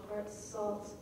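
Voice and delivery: "Heart salt" as two hard separate hits; harsh stresses. Shown as a demonstration. Teacher showing harshly punctuated words, separated. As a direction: punch "Heart" and "salt" apart. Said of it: "harshly punctuated".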